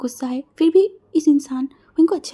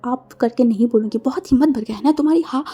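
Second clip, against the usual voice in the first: angry scolding; 5 dB louder than usual. Acted. Angry lover keeps scolding.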